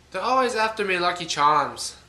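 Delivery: mock Irish leprechaun voice from a cereal ad; bad Irish accent. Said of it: "that was a horrible Irish accent".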